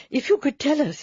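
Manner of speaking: doctor gently urging the dying man to speak; urgent. A narrator's reading. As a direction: lean in with mild urgency. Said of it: "he said urgently".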